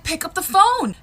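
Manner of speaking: loud, high mom yell; exasperated mom shout. Acted. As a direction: shout it at a child who won't obey. Mom yells at sobbing child.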